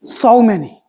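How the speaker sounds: breathy whisper for emphasis; whispered aside. Acted. Preacher lamenting broken marriages in a whisper. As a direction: drop to a whisper on it.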